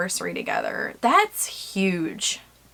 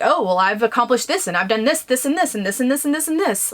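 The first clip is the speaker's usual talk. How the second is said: fast, smug rattling off of achievements; mock bragging; 3 semitones higher, faster than usual. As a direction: reel off the list like a show-off. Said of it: "just be like".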